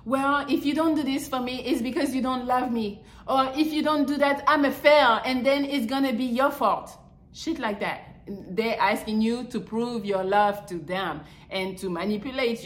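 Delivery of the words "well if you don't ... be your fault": higher, whiny guilt-trip plea; mock the needy partner laying on guilt; imitating a clingy partner's guilt trip; manipulative partner voice. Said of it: "You know them people who are like".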